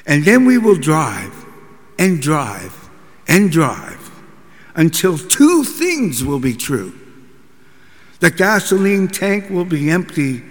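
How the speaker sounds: firm mock commands; drill sergeant. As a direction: lay down the rules like a sergeant. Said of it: "bark out orders like a drill sergeant".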